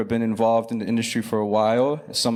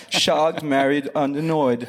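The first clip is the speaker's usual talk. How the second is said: laughing; 3 semitones higher than usual. Real, not acted. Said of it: "I love the way that you said".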